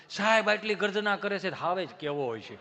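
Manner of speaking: normal talking voice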